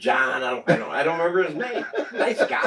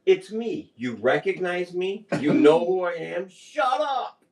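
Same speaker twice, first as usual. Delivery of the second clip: higher, coaxing then snapping; pleading with dog; 6 semitones higher, slower than usual. Retold or imitated. Owner telling his barking dog to recognize him. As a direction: reason with the dog, then lose patience. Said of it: "but I'm like".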